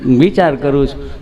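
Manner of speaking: low, slow, hesitant character voice; nervous friend. Acted. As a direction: stall slowly before answering. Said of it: "તમે ગભરાવશો શા માટે".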